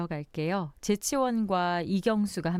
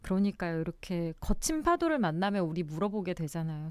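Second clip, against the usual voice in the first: ordinary delivery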